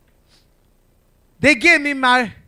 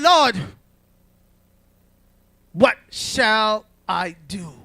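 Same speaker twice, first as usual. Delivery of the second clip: pleading prayer; 2 semitones lower, slower than usual. Retold or imitated. Voices own prayer to God.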